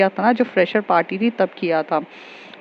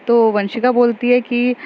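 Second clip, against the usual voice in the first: ordinary talk, nothing marked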